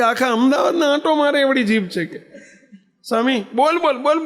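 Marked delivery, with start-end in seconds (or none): 0.0-2.0 laughing while quoting. Retold or imitated. Retelling father's complaint, laughing. 3.5-4.2 mimicking nagging mother.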